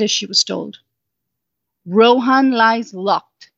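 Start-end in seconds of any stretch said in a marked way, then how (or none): 1.9-3.5 slow, lightly raspy wall voice; a hint of a slow, raspy secret voice. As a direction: draw the words out like an old voice from stone. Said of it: "a raspy voice began".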